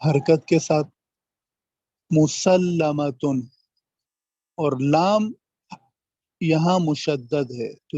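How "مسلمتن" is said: مسلمتن drawn out slowly, with the doubled lam held; slow teaching read of مسلمتن; shadda demo. Shown as a demonstration. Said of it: "لام کے اوپر تشدید ہے".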